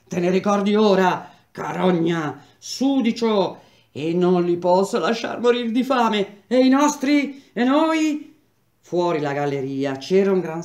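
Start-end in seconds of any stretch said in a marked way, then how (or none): 0.1-8.3 loud, high, contemptuous shouting; furious yelling. Acted. Strikers screaming at the beaten Olindo, loud and furious. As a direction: throw the insults at him in rage.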